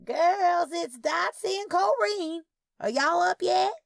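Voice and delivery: high, loud call through the house. Acted. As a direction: call out to the girls in back rooms. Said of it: "calling out as we entered".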